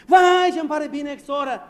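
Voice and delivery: high, loud, slow overdone delight; fake gushing greeting. Preacher mocking a fake delighted greeting to a sister. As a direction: play a syrupy false welcome.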